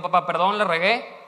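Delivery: a son's loud apology; pleading son. Acted. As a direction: beg dad's forgiveness out loud. Son voiced apologizing to father.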